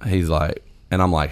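ordinary talk, nothing marked

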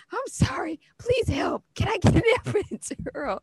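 mock pleading patient. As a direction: beg sweetly for help. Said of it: "I'm like".

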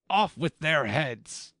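high, drawn-out execution order; high, forceful royal decree; commanding queen. A narrator's reading. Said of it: "said the queen".

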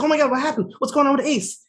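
high-pitched mock alarm; alarmed wife. Wife reacting to news about Ace, alarmed. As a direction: imitate a wife panicking at bad news.

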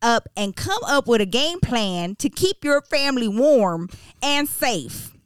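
put-on stern Texas accent reading. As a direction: read it like a gruff Texas mayor. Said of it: "I'm gonna be reading this in a Texas accent".

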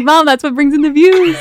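high, loud, laughing retort; laughing comeback. Retold or imitated. Daughter justifying bikinis to mom, laughing loud comeback. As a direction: protest jokingly through laughter.

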